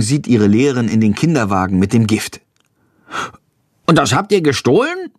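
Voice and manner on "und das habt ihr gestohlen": worried. A narrator's reading. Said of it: "fragt sie besorgt".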